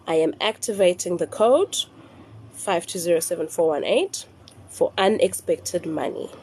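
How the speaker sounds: measured dictation with pauses between parts; nice and slow. Shown as a demonstration. Repeating the first sentence for followers, nice and slow. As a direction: recite it slowly for people writing it down. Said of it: "say it nice and slow".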